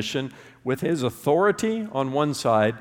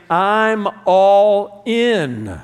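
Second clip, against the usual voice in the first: emphatic vow; 4 semitones higher, 7 dB louder, much slower than usual. Acted. Voicing a believer's vow.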